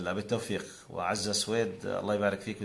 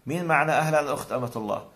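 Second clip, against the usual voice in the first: higher, louder playful host call; mock on-air host; 5 semitones higher, 4 dB louder than usual. Host acting out welcoming a nameless caller. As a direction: greet the caller with show energy. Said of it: "سمي حالك أمة الله".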